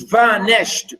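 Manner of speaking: vanished pulled apart as strong VA, then nished; syllables drawn apart. Shown as a demonstration. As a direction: stretch the VA in vanished. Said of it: "stress on the first one".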